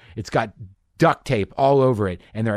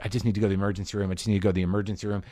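fast, soft muttered repeat; panicked mantra; 3 semitones lower, 4 dB quieter, much faster than usual. Retold or imitated. Tripping kid repeating his panic to himself, fast and soft. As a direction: rattle it off under your breath.

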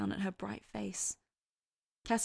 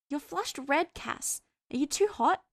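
high-pitched, concerned character voice; worried Hester; 7 semitones higher, 3 dB louder than usual. A narrator's reading. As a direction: pitch it up, fussing over him. Hester asks Cass with worry.

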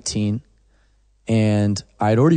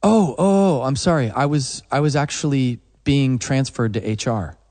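mock apologetic caller; 3 semitones higher than usual. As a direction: play the confused caller caught out. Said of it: "and I would go".

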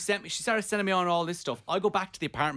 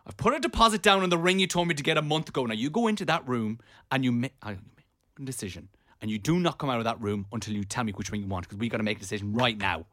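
stern retold ultimatum, dropping lower as it goes; retold anger; 3 semitones lower than usual. Giving his partner a ring ultimatum, retold anger. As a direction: lay down the law, re-enacting the row.

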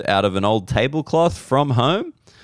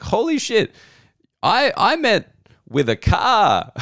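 shocked; 10 semitones higher than usual. Retold or imitated. Retelling his shocked reply.

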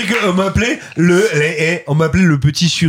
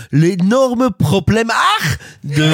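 shamefully bad German accent; hammed-up German accent in French; 2 semitones higher than usual. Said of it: "avec un accent allemand parfaitement honteux".

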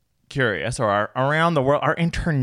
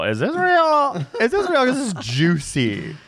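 excited squeal; 12 semitones higher, 4 dB louder, slower than usual. Retold or imitated. Excited googling imitation.

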